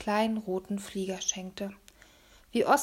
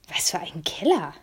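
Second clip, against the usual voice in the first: whispering; 4 semitones lower than usual. A narrator's reading. Oskar asks in the dark.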